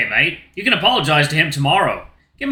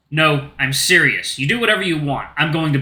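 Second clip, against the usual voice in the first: cold; 3 semitones lower than usual. Acted. Luke turns cold, slow.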